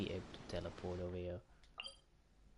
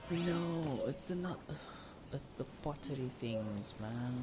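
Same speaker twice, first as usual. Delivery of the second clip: frustrated outburst; 6 semitones higher, slower than usual. Real, not acted. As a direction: yell it out in frustration. Frustrated at a game quest.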